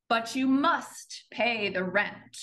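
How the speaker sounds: sneering panto villain. Acted. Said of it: "Back to Snidely".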